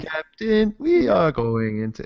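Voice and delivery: slow robotic computer voice; stiff, mechanical delivery; Stephen Hawking. Acted. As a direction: speak word by word like a speech synthesizer. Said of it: "yeah, that was Stephen Hawking".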